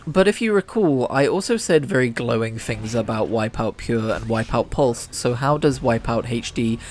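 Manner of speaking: punchy video host delivery; YouTuber voice. Acted. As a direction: hype it like a YouTuber. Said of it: "I'm doing my YouTuber voice and everything".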